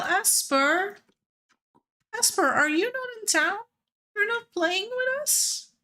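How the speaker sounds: high, eager calls across to a friend; excited calling. Real, not acted. Greeting Esper after a long while, excited calling. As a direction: call out to her, delighted.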